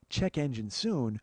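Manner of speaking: measured and slow, calm and courteous; slow polite reading. Retold or imitated. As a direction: read it out slowly and politely. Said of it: "very polite".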